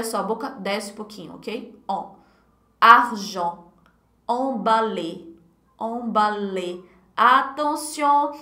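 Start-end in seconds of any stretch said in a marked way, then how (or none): 4.3-6.8 "emballé" said very slowly, ending on a clean "é" with no R; slow model word. Shown as a demonstration. Teacher models "emballé" slowly for students. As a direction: stretch out "emballé" and drop the final R. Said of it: "não pronuncie esse R aí no final não".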